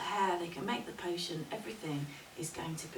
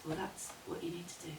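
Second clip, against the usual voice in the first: softer, measured advice; calm wise woman; 6 dB quieter, faster than usual. Acted. Crone to the woman about her journey, calm. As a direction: tell it quietly and simply.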